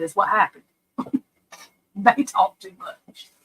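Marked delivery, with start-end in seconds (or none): 1.9-3.3 slowly, each word weighed; slow emphatic repeat. Shown as a demonstration. Slowly, driving home to viewers that they talked too much. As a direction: drag it out to drive it home. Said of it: "repeats it slower for emphasis".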